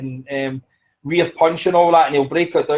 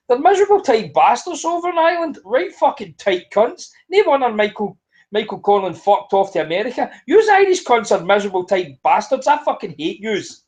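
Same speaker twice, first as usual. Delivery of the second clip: much higher, heated tirade; raging rant; 4 semitones higher than usual. Real, not acted. Podcaster ranting about Irish fight fans, genuinely raging. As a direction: vent real fury at the Irish. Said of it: "I'm absolutely raging".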